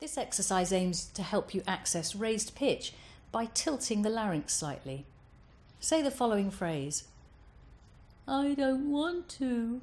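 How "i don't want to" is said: mild, gentle whine, high pitched, very slow, drawn out. Demonstrating the phrase for a voice exercise, gentle whining tone. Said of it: "with a somewhat whining tone".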